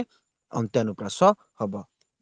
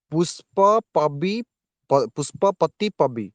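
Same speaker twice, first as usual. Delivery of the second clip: very slow, each part of ପୁଷ୍ପପତି drawn out; teacher sounding out the words slowly; slow pronunciation demo; much slower than usual. Shown as a demonstration. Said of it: "ତମେ ଉଚ୍ଚାରଣ ନିଜେ କର". (ଧୀରେ ଧୀରେ ଉଚ୍ଚାରଣ କରି ଦେଖାଇବା)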